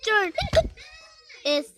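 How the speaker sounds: broken up by hiccups. Pretend. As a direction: pretend hiccups, words cut short. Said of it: "I can't stop hiccuping".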